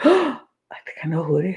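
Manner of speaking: quick, eager discovery; excited realisation. Retold or imitated. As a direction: blurt it out fast, thrilled. Jane's confessional realisation.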